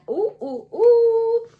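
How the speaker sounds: rising, delighted ooh; thrilled little ooh ooh ooh; excited ooh. Real, not acted. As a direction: squeal with real delight at a find. Excited at finding sugar plum scent.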